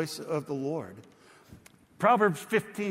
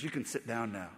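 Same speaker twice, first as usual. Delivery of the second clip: much softer, lower, icy and final; cold dismissal; 5 semitones lower, 7 dB quieter than usual. Retold or imitated. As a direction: Putin quietly dismisses the advisor, cold and low. Putin dismissing advisor coldly.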